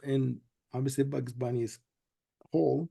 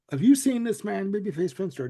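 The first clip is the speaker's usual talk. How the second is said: lightly voiced TV announcer; news flash announcer; 3 semitones higher than usual. Retelling the cartoon's TV news flash, mild announcer read. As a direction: read it like a bulletin, a touch brighter. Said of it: "he gets the news flash".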